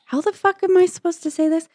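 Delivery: high-pitched incredulous complaint; exasperated bafflement. Retold or imitated. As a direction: throw up your hands in disbelief. Baffled by verse while reading it.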